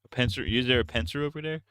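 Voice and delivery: "pincer" for pencil, final R. Shown as a demonstration. Streamer hunts for a pencil, "pincer" with R replacing L. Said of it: "replacing my L's with R's".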